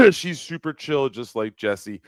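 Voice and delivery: reading the message out through laughter; giggling while reading it; laughing aloud over a chat message. Real, not acted.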